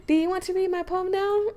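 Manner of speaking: high, put-on voice, inviting; eager game character. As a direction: pitch it up like a keen club friend.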